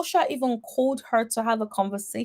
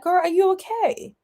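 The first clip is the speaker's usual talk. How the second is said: casual mock concern; 5 semitones higher, 4 dB louder than usual. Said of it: "So casually, like".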